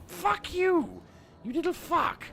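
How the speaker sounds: loud, high-pitched swearing yell; angry outburst. Real, not acted. Gamer cutting off his story at an in-game annoyance, angry outburst. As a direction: break off and yell at it.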